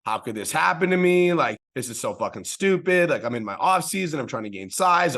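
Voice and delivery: a man retelling how fed up he was with his broken toe; retold angry rant. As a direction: replay the frustration of being injured, half in earnest. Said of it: "I was so angry and upset".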